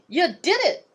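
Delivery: overjoyed. Acted. Boy cries out in joy at his raven. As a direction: burst out in delight.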